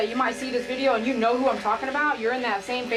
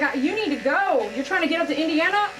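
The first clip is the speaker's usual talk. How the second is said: inner rush; 5 semitones higher than usual. Retold or imitated. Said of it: "I'm like".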